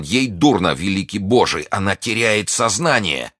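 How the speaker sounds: a touch of panic; alarmed cry. Acted. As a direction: report it in alarm. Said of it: "вскричал Д'Артаньян".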